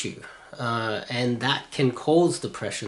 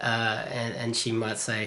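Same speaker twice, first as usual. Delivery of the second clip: usual speaking voice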